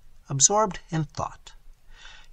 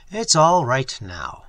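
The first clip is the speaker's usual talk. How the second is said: "It's all right now", slow and deliberate on each word; each word emphasized; 4 dB louder, slower than usual. A narrator's reading. Father reassures Dick at the table, each word of "It's all right now" slowly emphasized. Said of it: "emphasizing each word with a gentle tap".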